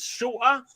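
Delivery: "shorter" with no T in the middle; dropped T. Shown as a demonstration. Demonstrating his accent to friends, T dropped from "shorter". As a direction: leave the T out of "shorter". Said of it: "I dropped the T".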